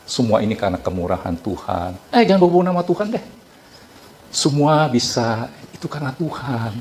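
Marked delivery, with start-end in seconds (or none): 2.1-3.2 quick, brushing-off mock retort; dismissive retort. Preacher mimics a scoffer dismissing talk of God, fast and dismissive. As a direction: toss it off fast like waving him away.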